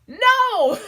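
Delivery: high, loud, laughing NO. Retold or imitated. Fans correcting a wrong guess, laughing and loud. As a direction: shout it through a laugh.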